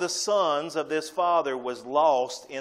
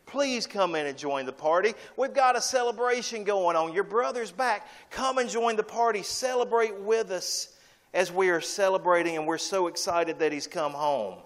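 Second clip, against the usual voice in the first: father pleading; 4 semitones higher than usual. Retold or imitated. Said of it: "his father has to come out and plead with him".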